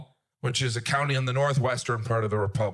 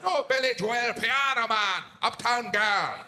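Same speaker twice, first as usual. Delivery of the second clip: eager recognition; 8 semitones higher than usual. Retold or imitated. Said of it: "I was like".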